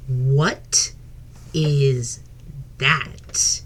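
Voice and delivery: low, soft, halting wonder; quiet, wide-eyed amazement; hushed child's awe. Acted. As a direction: spread the words out in stunned awe. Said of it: "You watch his eyes go so wide".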